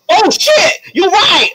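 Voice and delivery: high, shouted realization; startled gasp. Acted. GM voicing a singer waking from the trance, startled. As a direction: snap out of it with a yelp. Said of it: "She's like".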